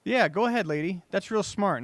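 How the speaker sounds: mock encouragement, dripping sarcasm; sarcastic. Real, not acted. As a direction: egg her on sarcastically. Mocking woman filling gas bags.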